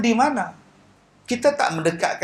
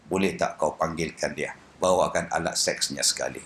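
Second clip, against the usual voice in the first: blind man voice; 6 dB quieter than usual. Retold or imitated. Blind Kasim voiced in story.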